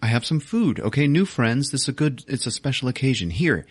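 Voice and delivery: a chimp excitedly sharing his food; excited ape. Retold or imitated. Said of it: "He's like".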